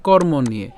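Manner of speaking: কর্ম নিয়ে said as kormon-niye; model pronunciation. Shown as a demonstration. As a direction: sound the n, then "iye" in কর্ম নিয়ে. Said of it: "উচ্চারণটা আমরা কীভাবে করছি". ("কর্ম নিয়ে"-তে ণ ও ইয়ে স্পষ্ট উচ্চারণ)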